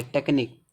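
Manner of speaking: टेक्निक ending in a simple k; shown reading टेक्निक. Shown as a demonstration. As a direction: close टेक्निक on k for the que. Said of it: "इसका उच्चारण का निकलेगा". (टेक्निक, अंत में सिर्फ 'क')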